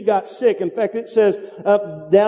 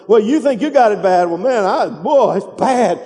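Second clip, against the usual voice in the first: whiny complainer. Retold or imitated. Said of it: "it's one up and it's one down".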